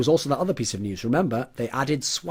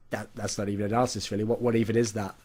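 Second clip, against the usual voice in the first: softer, baffled aside; muted disbelief; 5 semitones lower, 6 dB quieter than usual. Acted. Teammates doubting the analyst's advice, hushed bafflement. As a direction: mutter it softly in disbelief.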